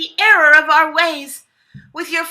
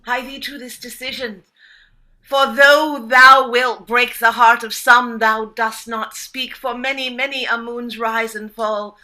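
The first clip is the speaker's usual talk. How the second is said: mock olde english; 4 semitones lower than usual. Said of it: "using Shakespearean speak".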